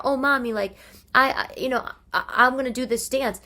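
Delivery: put-on high, whiny little child asking mommy; kid voice. Mother imitating her child asking about YouTube, high kid voice. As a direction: play the excited kid.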